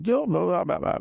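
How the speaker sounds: high, mumbled Birmingham gibberish; imitating thick Birmingham mates; mock Birmingham accent. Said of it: "heavy Birmingham accent".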